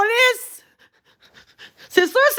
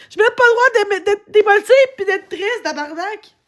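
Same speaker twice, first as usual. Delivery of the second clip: tearful; 4 semitones higher than usual. Real, not acted. Tearful rant to chat.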